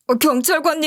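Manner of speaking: indignant whine to the officer; brazen protest. A narrator's reading. An arrested man protesting brazenly to the police. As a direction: play the victim. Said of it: "뻔뻔하게 이런 개소리를".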